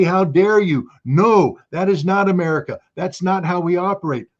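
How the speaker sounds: indignant rebuke. Pretend. Imagined senator challenging Graham.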